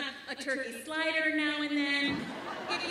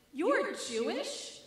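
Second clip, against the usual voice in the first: mock compliment; slower than usual. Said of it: "he says it in this tone like he's complimenting me".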